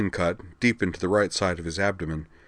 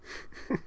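faint, very soft tired chuckle; a little laugh through drying tears; weak chuckle; 11 dB quieter than usual. A narrator's reading. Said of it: "with a weak chuckle".

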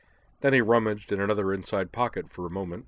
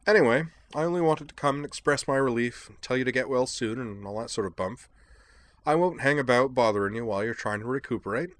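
higher, breezy English chap; chirpy and self-pleased; a light eccentric gentleman; jaunty Devlin voice; 4 semitones higher than usual. Acted. Devlin's dialogue.

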